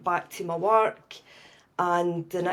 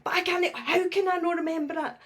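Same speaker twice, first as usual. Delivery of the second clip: upset disbelief; 10 semitones higher, faster than usual. Retold or imitated. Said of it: "And I was like".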